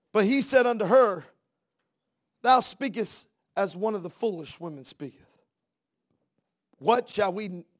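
declaimed scripture. Acted.

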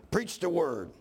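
"Preach the word" preached with a push of force. Shown as a demonstration. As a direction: start preaching it out. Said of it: "I about preach all myself".

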